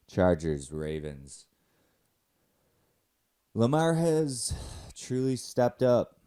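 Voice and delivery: high, loud cartoon coach swoops; exaggerated cartoon intonation. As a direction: swing the pitch like a cartoon. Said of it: "cartoon character type voice".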